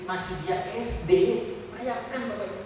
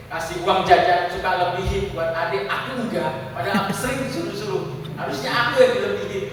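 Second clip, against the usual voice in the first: loud mock grievance breaking into a laugh; imitated child's complaint; 7 dB louder than usual. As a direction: retell a kid's protest, amused. Menirukan anak mengeluh soal uang jajan. (menirukan keluhan anak sambil geli)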